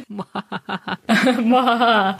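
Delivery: slow, drawn-out evil laugh; villain cackle. Pretend. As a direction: cackle like a scheming panto villain.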